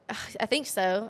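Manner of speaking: slow British accent slipping into country; British-country slip. Real, not acted. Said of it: "I slipped up between British and country".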